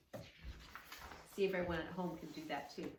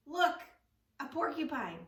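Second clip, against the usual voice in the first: higher and louder, pointing it out; excited spotting; 7 semitones higher, 6 dB louder than usual. A narrator's reading. Girl spotting a porcupine on the road, excited call. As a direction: call out the find with delight.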